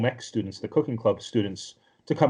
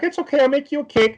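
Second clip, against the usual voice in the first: eager offer; 13 semitones higher, 5 dB louder, faster than usual. Retold or imitated. Tomoya offers to make cake.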